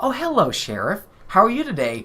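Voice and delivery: breezy, relaxed delivery. Retelling how Missus Potsdam calls the police: imitating casual Missus Potsdam. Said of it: "she's very casual about it".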